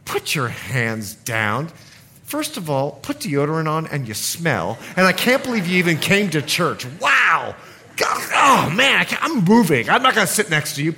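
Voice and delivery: mock disgusted complaint; a killjoy grumbling in the pew; rude churchgoer. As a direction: sneer at the worshipper beside you. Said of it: "someone sits next to you and goes".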